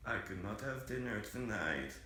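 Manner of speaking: flat mechanical robot voice. Pretend. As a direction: speak like a computer voice. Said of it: "sounds exactly like a robot".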